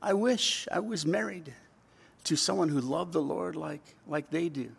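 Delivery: quoting someone who longs; imitated longing. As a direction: voice a mild, wishful yearning. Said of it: "they're just longing in their heart".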